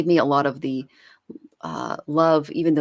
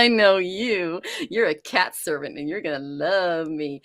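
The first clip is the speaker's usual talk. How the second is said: higher, put-on cat voice; cat's voice; 4 semitones higher, 3 dB louder than usual. Cat claiming its new servant, playful put-on voice. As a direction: draw out the opening as a knowing cat. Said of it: "that they see and go".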